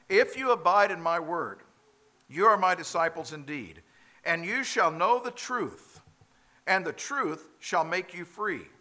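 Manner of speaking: earnest Jesus. Acted. Preacher voices Jesus' words.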